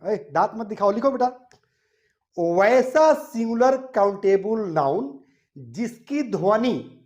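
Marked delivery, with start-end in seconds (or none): 2.4-6.9 slow and deliberate, each word spaced for writing; slow dictation. Shown as a demonstration. Teacher repeating the rule slowly for students to write down. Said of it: "फिर मैं एक बार repeat कर रहा हूं".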